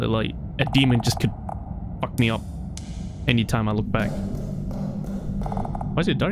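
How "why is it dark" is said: whisper. Real, not acted. Alone in dark horror game.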